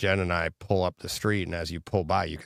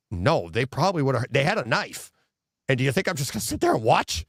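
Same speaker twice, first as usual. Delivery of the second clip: heated retold protest; 6 semitones higher than usual. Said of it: "I go".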